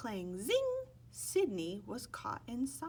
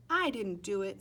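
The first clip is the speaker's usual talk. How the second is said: insistent denial; 6 dB louder than usual. Acted. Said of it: "Sidney said".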